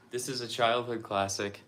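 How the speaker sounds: breathless, catching air between words; out of breath. Real, not acted. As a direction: talk while winded from exertion. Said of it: "man, I'm out of breath".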